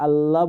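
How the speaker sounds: "আল্লাহ" with light, open "llaa"; thin, wrong Allah. Shown as a demonstration. Teacher showing a faulty saying, thin "llaa" in "আল্লাহ". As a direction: keep "আল্লাহ" thin and unrounded. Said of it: "আল্লাহ বললে এটা শুদ্ধ হচ্ছে না".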